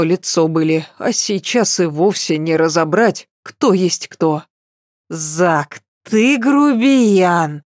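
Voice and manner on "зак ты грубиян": slow, stretched tipsy drawl on "грубиян"; drawn out. Acted. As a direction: drag the words out lazily. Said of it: "протянула я".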